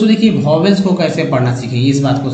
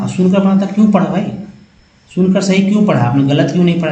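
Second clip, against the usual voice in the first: rhetorical challenge; 3 semitones higher, faster than usual. Real, not acted. Teacher challenges students rhetorically.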